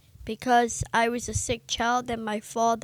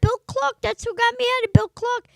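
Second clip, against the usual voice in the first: eager bluff; 11 semitones higher, 6 dB louder, faster than usual. Retold or imitated. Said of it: "And I go".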